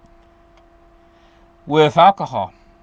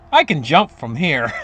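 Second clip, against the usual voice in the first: lower, unbothered punchline delivery; mock calm; 4 semitones lower than usual. Simpleton jumper answers just above the ground, mock calm. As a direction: toss it off with mock serenity. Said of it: "looks up at him calmly and says".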